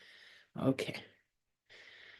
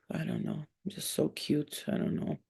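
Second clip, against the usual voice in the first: imagined dog's reply; 6 dB quieter than usual. Acted. Owner answers for her dog, soft put-on reply. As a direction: play the dog answering, softly. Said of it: "she just be like".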